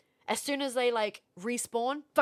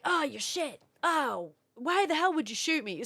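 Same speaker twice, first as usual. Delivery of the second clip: put-on whiny gamer kid; 5 semitones higher than usual. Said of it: "going like".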